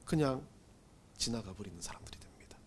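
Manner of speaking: 그냥 지나가 버리는 sinks to a breathless whisper; 속삭이듯; dramatic whisper. Acted. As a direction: let it fall away into a whisper. Preacher drops to a whisper.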